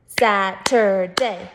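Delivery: Saturday in three slow, separated chunks; syllable by syllable. Shown as a demonstration. Teacher counting syllables with first graders, slow and chunked. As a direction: break Saturday into SAT, UR, DAY, slowly. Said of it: "Do it with me".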